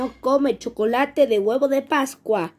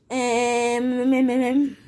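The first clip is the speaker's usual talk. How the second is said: stammering character voice; 4 semitones lower, much slower than usual. Acted.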